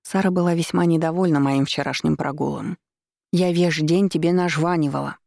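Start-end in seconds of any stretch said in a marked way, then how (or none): 3.3-5.2 нажванивала slurred with a lisp. Acted. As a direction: lisp through a pin held in the lips. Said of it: "сказала она шепеляво".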